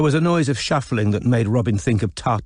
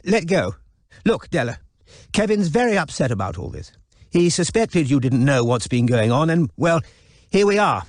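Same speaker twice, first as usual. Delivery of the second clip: put-on elderly wife; 6 semitones higher than usual. Elderly wife takes phone.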